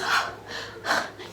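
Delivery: soft mock gasps for air; breathy panting, put on; faked heart episode. Friend faking heart trouble, mock gasping. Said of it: "she'll pretend like she's".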